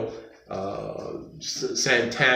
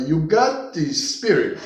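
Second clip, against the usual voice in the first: imitating a Puerto Rican accent, slower and higher; teacher's Puerto Rican accent; 4 semitones higher, slower than usual. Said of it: "He told me that in his accent".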